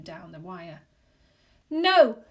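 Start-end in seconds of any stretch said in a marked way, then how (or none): 1.7-2.2 loud, high shout. A narrator's reading. Husband shouting at the telephone, loud and high. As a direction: yell it at the phone. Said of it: "he shouted at it".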